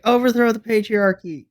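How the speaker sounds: high, loud protest chant; mock rallying cry. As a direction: call it out like a playful revolutionary. Mock slogan cheering on the storyline.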